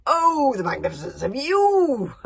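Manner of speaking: high, loud, slow fan scream; crowd screaming back. A narrator's reading. Crowd screaming adoration back at their chief. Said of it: "screamed the crowds right back".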